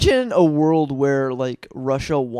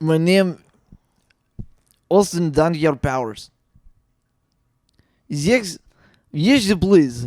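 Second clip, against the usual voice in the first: put-on Russian-accented voice. Taking a turn at saying austin powers quotes in different accents: russian accent. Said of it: "do the these quotes in a Russian accent".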